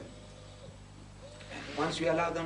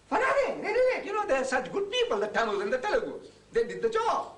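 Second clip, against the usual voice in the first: laughing scorn; 10 semitones higher than usual. Acted. Mocking how the labourers were used.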